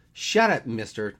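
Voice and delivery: sharp, loud, high-pitched "shut up"; indignant retort. Acted. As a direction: cut him off, offended. Snapping back at being called old.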